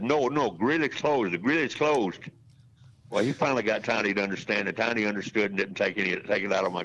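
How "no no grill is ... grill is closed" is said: put-on light Greek accent, firm refusal; insisting in a mild Greek accent. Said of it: "as my granddaddy said".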